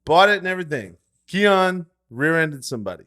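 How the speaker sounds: high, loud indignant protest; mock outrage. Real, not acted. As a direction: defend the car like it was sacred. Ranting about brother wrecking car.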